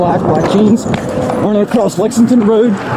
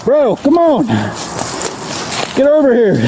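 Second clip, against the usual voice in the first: yelling across the room; 5 semitones higher than usual. Real, not acted. Officer calling to suspect.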